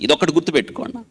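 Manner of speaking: ordinary talk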